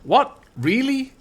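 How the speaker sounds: put-on high, disbelieving what-really in a Scottish accent; baffled Scottish disbelief; incredulous. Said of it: "and I'm like".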